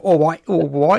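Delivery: gulping fish voice, pitch up; fish impression. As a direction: mouth it like a fish blowing bubbles. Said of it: "that was a good fish impression".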